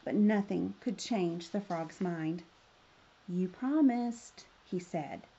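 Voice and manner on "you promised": slow, drawn-out reproach; storybook frog insisting slowly; insistent reminder. Acted. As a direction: stretch it out to press the point. Frog holds her to promise.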